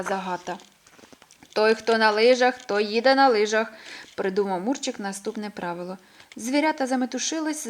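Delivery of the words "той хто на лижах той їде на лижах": matter-of-fact rule. A narrator's reading. Inventing a rule.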